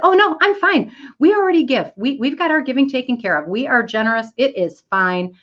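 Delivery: high-pitched, self-satisfied brush-off easing down; breezy refusal. Retold or imitated. Employee refusing a donation request, high breezy refusal. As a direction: pitch it up, politely waving them away.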